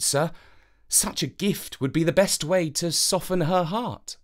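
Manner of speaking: bow with your voice, respectful and gentle; humble courtier. Acted. Avenant advises the king on a gift, humble courtier.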